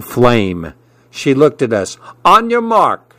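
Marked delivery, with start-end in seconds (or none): 2.2-3.1 high, called out to start the race; hollered. A narrator's reading. Marlene starting the chicken race, hollering. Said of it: "she hollered".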